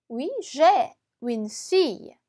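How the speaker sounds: slow, careful French model sentence; slow teacher's French read-aloud. Shown as a demonstration. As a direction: read it slowly like a language tape. French dialogue line, slow.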